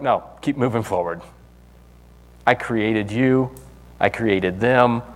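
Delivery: God speaking steadily to a doubter; calm reassurance. Retold or imitated.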